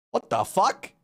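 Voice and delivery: high, incredulous question; mock disbelief. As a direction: play a stunned aside to the camera. Character turns to camera, stunned.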